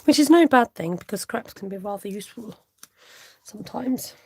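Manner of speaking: lightly put-on posh English accent. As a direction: slip playfully into a touch of posh. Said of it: "I'm putting on a posh voice".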